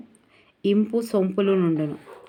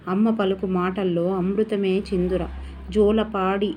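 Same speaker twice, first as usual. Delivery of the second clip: poem recitation. Acted. Teacher reading the mother poem aloud to pupils, measured recitation. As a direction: recite it gently to the class.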